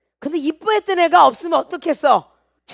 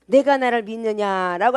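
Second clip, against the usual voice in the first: lower-pitched, tender question; gentle; 5 semitones lower than usual. Acted. Preacher voices the Lord questioning Martha, gently. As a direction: ask it gently, without pressing. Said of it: "부드럽게 하신 장면이야".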